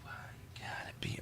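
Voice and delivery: frustrated whisper. Real, not acted. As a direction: hush it, fed up. Whispering at broken computer.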